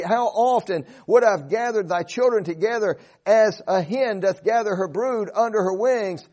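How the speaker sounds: a grieving Savior's cry over Jerusalem; sorrowful passion. Acted. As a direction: plead over the city with sorrow and compassion. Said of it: "you can just hear the passion and the compassion and the sorrow in his voice".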